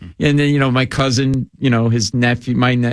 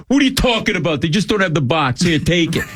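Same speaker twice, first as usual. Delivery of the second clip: higher, breezy wise-guy brush-off; cousin brushing it off; 4 semitones higher than usual. Retold or imitated. Cousin Bobby shrugging off stolen goods, breezy. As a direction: wave off the question like a hustler. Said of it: "He goes".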